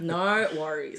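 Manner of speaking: imitating his tone. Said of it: "That's the tone he says it".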